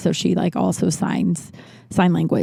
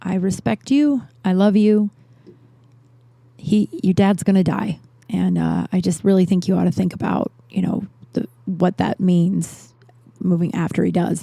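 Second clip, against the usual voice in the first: kind aunt. Retold or imitated. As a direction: break hard news kindly, with pauses. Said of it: "she was just so kind about it".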